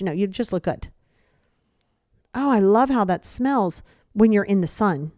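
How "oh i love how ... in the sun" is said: backhanded compliment. Shown as a demonstration. Friend remarking on someone's smell, backhanded praise. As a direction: dwell on "love" and "smells". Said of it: "backhanded compliments are a massive piece".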